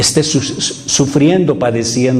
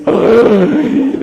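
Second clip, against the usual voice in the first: imitated parent's reaction; 7 semitones higher than usual. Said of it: "ve al niño así que le dice".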